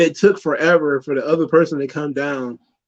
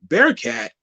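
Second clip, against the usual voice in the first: shocked disbelief; 7 semitones higher than usual. Retold or imitated. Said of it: "You're like".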